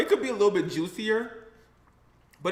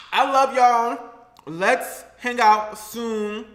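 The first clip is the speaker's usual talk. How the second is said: loud farewell; 4 semitones higher, 7 dB louder, much slower than usual. Real, not acted.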